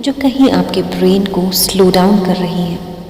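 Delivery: slow, drawn-out meditation guidance with long pauses; guided meditation. Acted. Meditation teacher guiding listeners through breathing, slow guided-meditation voice. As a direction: stretch key words and leave room to breathe.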